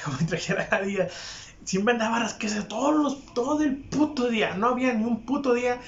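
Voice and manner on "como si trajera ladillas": repeated through a laugh; chuckling as it repeats. Real, not acted. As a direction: say it again while laughing.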